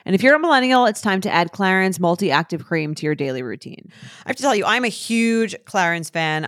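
upbeat sponsor read; podcast host reading a deodorant ad. Acted. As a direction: sell the deodorant to the listeners. Reads a sponsor ad.

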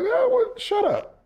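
high squeaky mock snap at the reporter; mock irritated brush-off. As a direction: toss it off in a shrill, fake-annoyed pitch. Imagined snapping back at reporter.

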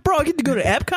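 high, giddy bro impersonation; mock his thrill at a theme park; put-on clueless bro excitement; mock excited boyfriend. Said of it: "It's like".

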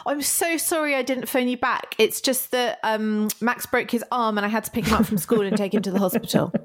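playful show of being very sorry; mock apology. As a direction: apologise profusely with an invented excuse. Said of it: "You want me to apologize for these things".

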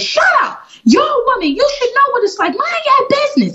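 high mocking shriek of the woman; woman cursing me out. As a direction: spit it back at her in a shrill voice. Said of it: "She says".

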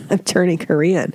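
usual speaking voice

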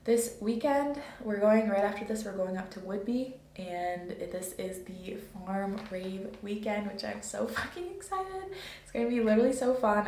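buzzing on coffee; too much caffeine. Real, not acted. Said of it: "I am so caffeinated right now".

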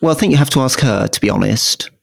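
attempted Estuary accent impression; half-hearted Estuary accent; Priti Patel. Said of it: "That, that's about as good as I can do".

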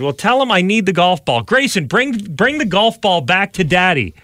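put-on calling out to a child. Calling son to return ball.

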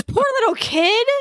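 a hint of pity for the kid; sympathetic pity. Husband watching the show, mild sympathy. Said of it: "He goes".

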